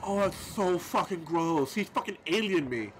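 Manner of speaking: ordinary delivery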